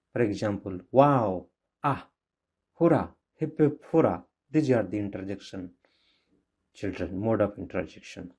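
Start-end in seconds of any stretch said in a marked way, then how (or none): 0.9-4.2 demonstrated interjections, each a short burst; sudden strong feeling. Shown as a demonstration. Teacher giving children examples of interjections, mildly exclaimed. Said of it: "used to express strong feeling or sudden emotion".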